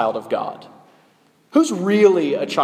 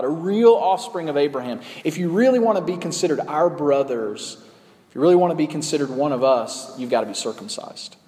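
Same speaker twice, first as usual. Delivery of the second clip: false teachers' claim. Retold or imitated. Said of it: "and they say".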